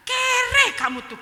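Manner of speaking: high, loud, drawn-out jeer; shouted insult. Retold or imitated. Friend's words still stinging the speaker, shouted insult. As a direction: imitate a friend yelling scorn.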